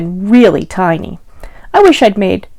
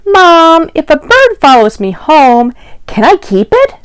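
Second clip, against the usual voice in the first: put-on higher, louder child begging mom; excited little boy; 6 semitones higher, 3 dB louder than usual. Boy asking his mom to keep a frog, eager and high. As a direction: plead like an eager kid asking permission.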